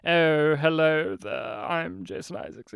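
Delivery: rough attempt at an actor's voice; Jason Isaacs. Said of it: "I can't do his voice".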